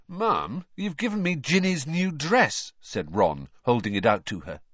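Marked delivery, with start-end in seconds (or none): 0.1-2.7 boy's protest, lightly voiced. A narrator's reading. Ron protests to his mother.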